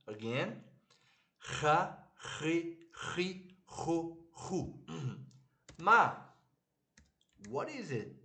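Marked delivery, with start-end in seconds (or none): 1.4-4.8 חה, חי, חו drilled one by one, scraping the ח; throat-scratching CH. Shown as a demonstration. Teacher repeats the drill for learners, scratchy throat CH. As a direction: scrape the back of the throat for every ח. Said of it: "scratching your throat".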